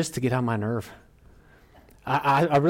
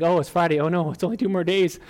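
higher-pitched, comic fretting; mock dread; 5 semitones higher than usual. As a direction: playfully act out dreading what's coming. Acting out dread of Sunday.

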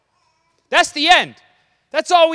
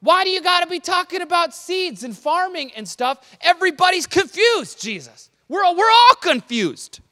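louder, higher pleading disciples; mock-frustrated, why not just say it; exasperated disciples; 6 semitones higher, 4 dB louder than usual. Disciples complaining to Jesus, exasperated and pleading. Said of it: "the implication here is".

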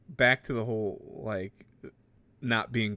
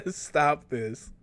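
laughing protest; 4 semitones higher than usual. Real, not acted. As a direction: protest half swallowed by laughter. Embarrassed through laughter.

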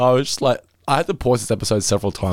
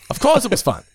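put-on gruff old man; 13 semitones higher than usual. Retelling Jimbo's answer.

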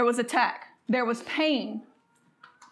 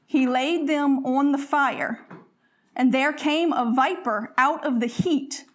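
scripture reading. Acted. Reads scripture aloud.

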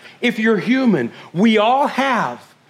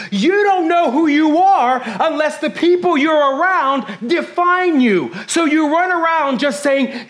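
urgent, pitched-up preaching rush; driving, breathless sermon intensity; fast and intense; 3 semitones higher than usual. Real, not acted. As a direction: fire it off without stopping for breath. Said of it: "I'm talking fast and I know I'm being intense".

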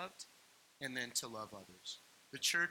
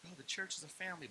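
quick, slightly raised aside; quick caveat; 4 semitones higher, 5 dB quieter, faster than usual. Retold or imitated. Pastor voicing his caveat on church, quick and offhand. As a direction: toss it off quickly.

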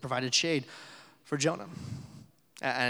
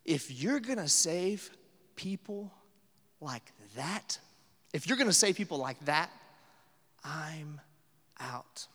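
modern Jonah. Retold or imitated. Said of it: "I think it sounds like this".

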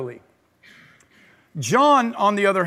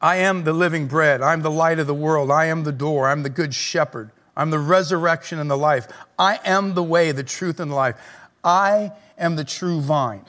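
lower, measured proclamation; solemn recitation; 4 semitones lower than usual. Shown as a demonstration. Reciting Jesus' I am sayings.

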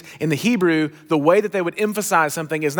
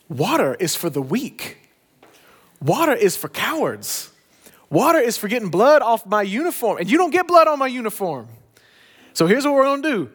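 building coach rant; 4 semitones higher than usual. Retold or imitated. Coach building into a tirade at players wanting water, ranting. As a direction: lay into the team harder with every line. Coach Boone berates thirsty team.

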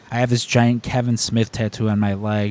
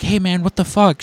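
sharp, higher mock-angry outburst, louder; fake outburst; 7 semitones higher, 4 dB louder than usual. Fan at ringside fakes anger at the usher. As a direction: put on a fake fit of anger. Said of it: "I just fake lose it".

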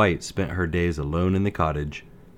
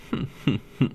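evil cackle; 6 semitones higher than usual. Acted. Queen laughs after Snow White faints.

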